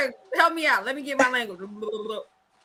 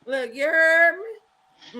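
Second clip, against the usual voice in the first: very slow, drawn-out New Orleans attempt; New Orleans accent; much slower than usual. Shown as a demonstration. Showing friends her Nola phrase, slow New Orleans drawl. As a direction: drag it like a New Orleans local. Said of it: "That's New Orleans".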